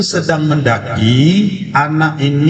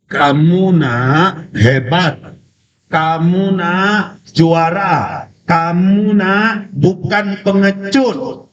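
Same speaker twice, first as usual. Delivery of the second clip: fatherly affirmation; 6 semitones higher, slower than usual. A narrator's reading. Father affirms his child in story.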